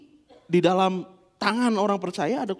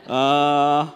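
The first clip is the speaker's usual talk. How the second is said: put-on loud child voice; 11 dB louder, slower than usual. Son's voice, sudden loud.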